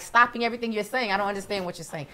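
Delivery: imitating mom, high and loud; loud, high-pitched mock bewilderment; puzzled mother. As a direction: pitch it way up as a baffled, complaining mom. Mother's complaint about bleeps, continued.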